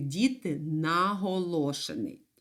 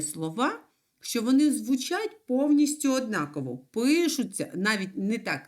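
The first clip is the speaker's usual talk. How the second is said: normal talking voice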